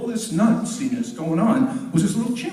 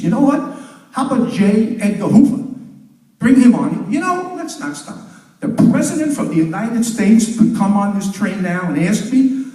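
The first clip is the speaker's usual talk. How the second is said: defiant grandmother; 3 dB louder than usual. Acted.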